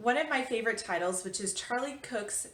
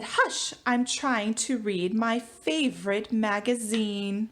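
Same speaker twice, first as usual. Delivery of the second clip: mum shushing; 3 dB louder, slower than usual. Acted. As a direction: shush the child without looking up. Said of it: "But Mum said".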